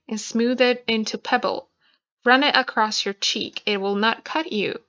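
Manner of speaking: unhurried, intimate reading of a poem. Acted. Reads the Pig Glass poem.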